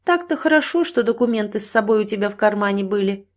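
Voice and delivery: nurse's sigh of relief; relieved. Acted. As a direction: speak with relief to a waking patient. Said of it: "с облегчением выдохнула медсестра".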